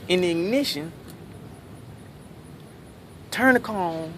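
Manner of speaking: rising, mocking know-it-all listing the obvious. Comic mocking the audience's easy fix. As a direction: needle him like a smug backseat driver. Imitating smug audience advice.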